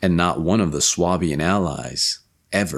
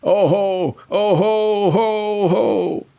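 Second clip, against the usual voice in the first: high, loud anguished cries; anguished scream; 4 dB louder, much slower than usual. Acted. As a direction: cry out in terror, high and loud. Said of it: "he screamed in greatest anguish".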